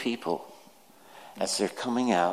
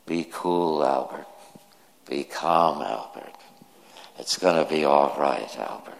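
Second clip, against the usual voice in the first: self-calming murmur, sinking lower on each Albert; soothing words; 5 semitones lower than usual. Retold or imitated. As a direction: soothe yourself more than the child. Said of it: "speaking such soothing words".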